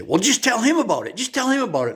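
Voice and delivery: put-on high, pushy old lady voice urging her friend; elderly lady urging. Elderly lady pushing her friend to speak up, high and insistent. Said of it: "I heard one of them say".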